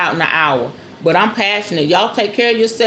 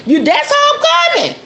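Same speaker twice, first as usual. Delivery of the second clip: emphatic shout. Real, not acted. Woman telling viewers her blunt 2024 approach, shouting. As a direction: fling it out with full conviction.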